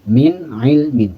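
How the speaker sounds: "Min ilmin" slow, with the N clear and short; clear izhar. Shown as a demonstration. Teacher models a clean izhar in "Min ilmin". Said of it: "jangan dilamakan bacanya".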